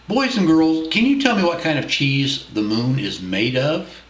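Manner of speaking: put-on bright question to the kids; reading to children. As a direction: ask the little ones warmly. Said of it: "asks the children directly".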